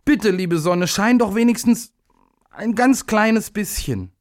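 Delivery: little day makes a last gentle plea. A narrator's reading.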